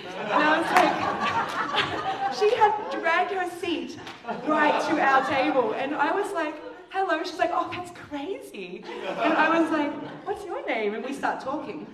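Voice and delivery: high and loud, laughing between words; laughing through it. Real, not acted. Preacher retelling the witch pulling her chair over, laughing hard. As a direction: tell it while cracking up.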